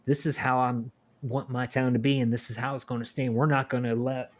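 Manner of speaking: put-on small-town local with a Southern accent; lightly put-on Southern accent. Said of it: "went into a Southern accent".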